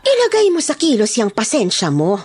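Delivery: angry threat. Acted. Boss Emily threatening the gang, sharp and angry. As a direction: warn him she's losing patience.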